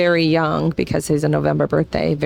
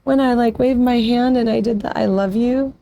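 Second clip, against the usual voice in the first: put-on higher, eager young son asking his parents; excited son; 6 semitones higher than usual. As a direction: voice the son, bursting to know if they saw. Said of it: "he said".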